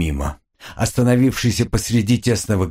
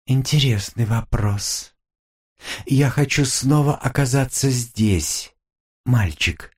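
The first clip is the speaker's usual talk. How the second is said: demon voice; 3 semitones higher than usual. Acted. Demon answers slowly. (низкий голос насмешливого демона)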